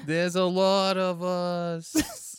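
high, drawn-out spooky wail; lobster ghosts. Acted. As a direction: moan slowly like a comic pleading ghost. Plays pleading lobster ghosts.

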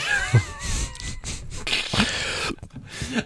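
very high, squealing laugh; shrieking laughter. Real, not acted. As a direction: crack up helplessly, squeaking high. Laughing at own tarpaulin impression.

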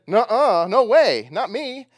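put-on loud, high childish protest; stubborn refusal. Preacher voicing Peter refusing Jesus, loud stubborn protest. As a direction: push back like a stubborn kid, loud and high.

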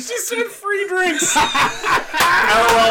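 put-on high, slow, laughing girly voice; man doing a woman's voice. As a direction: squeal the line as a giggly girl. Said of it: "him to read the girl voice".

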